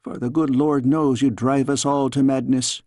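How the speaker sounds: lightly voiced Scots nanny, teasing scold; a fond old nurse chiding in a Scots lilt; a hint of a Scottish nursemaid. Nanny figure scolding the girl.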